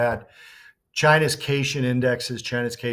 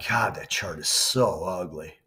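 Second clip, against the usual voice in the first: whispering; 5 semitones lower than usual. Real, not acted. Disgusted aside at ugly chart.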